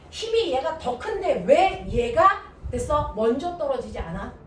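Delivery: mock a baffled pupil protesting; students' confused protest, played up by the teacher; imitating confused students. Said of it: "라는 얘기를 늘 합니다, 애들이".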